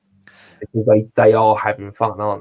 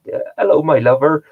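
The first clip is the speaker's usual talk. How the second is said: "hello" lifted high and sing-song, "my lover" a touch louder; his own catchphrase use; 6 semitones higher, 4 dB louder than usual. Retold or imitated. Greeting people with his favourite line, playfully higher. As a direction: toss off the pet phrase playfully. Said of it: "phrases that I just say".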